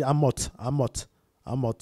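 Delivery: Amot ending in an audible TS; sounded final S. Shown as a demonstration. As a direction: repeat Amot with the unwritten S sounded. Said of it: "le S se dit dans la prononciation". (Amot avec le S final prononcé)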